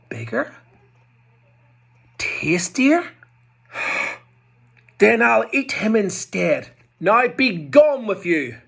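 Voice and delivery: high, loud greedy troll voice. Acted. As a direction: gloat like a hungry troll. Troll voice in story.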